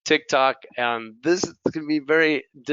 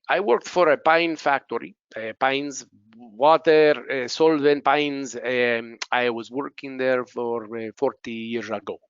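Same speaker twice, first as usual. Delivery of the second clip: imitated learner's accent in English; halting non-native accent with filler "eh"; imitated employee. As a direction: play a learner with an accent, searching for words. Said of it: "The employee".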